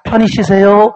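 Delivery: acted hostess sweetness; see the guest off with put-on cheer; brightly smiling voice. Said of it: "활짝 웃는 목소리로".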